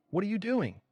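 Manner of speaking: a startled furious scream; infuriated scream. A narrator's reading. Emperor screams when the priest touches his head, infuriated.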